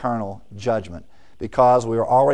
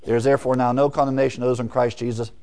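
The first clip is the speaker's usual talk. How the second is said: a fast, plain reading ending on Jesus; quick plain reading; faster than usual. Shown as a demonstration. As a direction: rattle off the verse fast, matter-of-fact.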